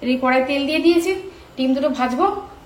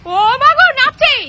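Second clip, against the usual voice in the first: high, loud startled cry; excited exclaim; 12 semitones higher, 9 dB louder than usual. Real, not acted. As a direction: exclaim in alarm and delight. Monkey dancing on the tree.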